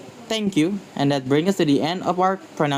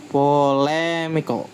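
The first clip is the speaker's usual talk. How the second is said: "polemical" slowly, stretching stressed "le"; stress before ICAL; slower than usual. Shown as a demonstration. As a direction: draw out "le" in "polemical". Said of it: "the stress falls on the syllable before I C".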